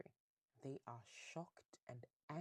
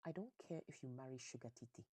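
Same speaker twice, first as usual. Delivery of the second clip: mildly annoyed, ending in a loud demand; exasperated mom laying down the law; annoyed mother; 3 dB louder than usual. Acted. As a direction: act a fed-up mother, louder at the end. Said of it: "Zita is just annoyed".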